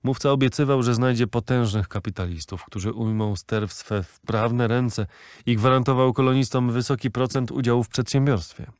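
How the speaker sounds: ordinary delivery, nothing marked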